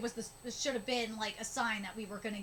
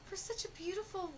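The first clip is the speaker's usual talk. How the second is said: high, tearful reading; emotional, pitched-up read-aloud; about to cry; 6 semitones higher than usual. Real, not acted. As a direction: read on while fighting back tears. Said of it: "gonna cry".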